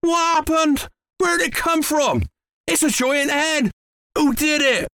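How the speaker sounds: high-pitched, amazed questioning; flabbergasted farmer, voice pitched right up; astonished cry. A narrator's reading. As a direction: fire off startled questions in a high voice. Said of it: "he cried".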